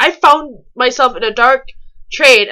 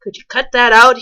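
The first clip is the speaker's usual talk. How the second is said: mild snap; 5 dB louder than usual. Retold or imitated. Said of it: "Rick snapped at me".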